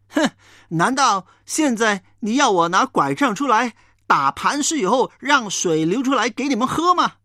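a touch of scorn in a mild angry scolding; huff, then scold the hypocrites with understated anger; angry Moses. Acted. Moses scolding the complaining people, mildly angry. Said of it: "摩西还是非常的生气".

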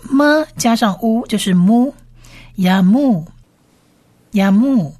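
么 and 乌 joined into a long "mu"; sound-blending demo. Shown as a demonstration. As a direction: build up to 雅木 as "ya-MU". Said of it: "第三个字母其实是母音字母乌的音".

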